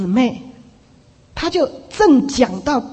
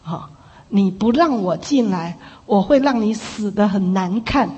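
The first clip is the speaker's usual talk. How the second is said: threatening spirit voice, retold; 4 semitones lower than usual. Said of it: "这阴风就说".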